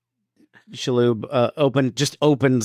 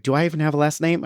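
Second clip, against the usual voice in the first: higher, quick anxious question; mock freak-out; 5 semitones higher, faster than usual. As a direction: imitate a man starting to panic. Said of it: "And he's freaking out".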